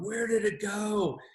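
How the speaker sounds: put-on high, slow plaintive kid voice; searching daughter. Husband imitating his daughter hunting for her hummus, high and slow. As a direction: ask it like a puzzled child. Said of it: "she's going".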